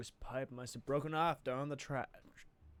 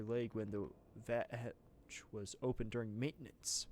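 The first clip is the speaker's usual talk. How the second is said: put-on southern accent. Streamer voicing a game character in a southern accent. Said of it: "I'm doing a lot of southern accents".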